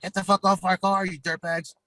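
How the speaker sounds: high, aggressive shout at bikers; Tammy yelling. Retold or imitated. Tammy to bikers leaning on the car, aggressive shout. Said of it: "Tammy being Tammy's like".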